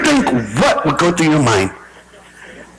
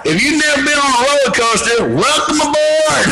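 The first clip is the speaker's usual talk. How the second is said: Elmer Fudd-like pilot; 7 semitones higher than usual. Acted. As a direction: stretch the welcome out in a high silly voice. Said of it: "who let Elmer Fudd fly the airplane".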